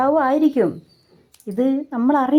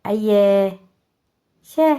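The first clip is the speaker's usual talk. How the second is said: uncle dismissive; 4 semitones higher than usual. Retold or imitated. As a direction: wave the past away with a scoff. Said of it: "മാമൻ പറഞ്ഞ്".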